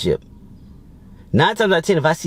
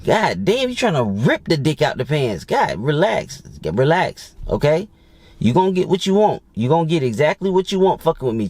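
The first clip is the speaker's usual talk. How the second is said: put-on reassuring the girl; 3 semitones higher than usual. Reenacts calming the girl.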